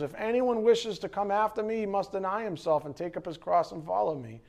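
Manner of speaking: measured, even reading of the gospel; scripture reading. Acted. Pastor reading Matthew to the congregation, steady and measured. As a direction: read the words of Jesus with care.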